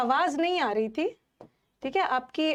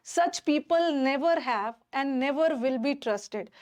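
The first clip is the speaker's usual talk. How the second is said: very slow, each word set apart for students; slow dictation; much slower than usual. Shown as a demonstration. Teacher reading a test sentence to her class, slowly. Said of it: "अब मुझे बताओ, ये sentence".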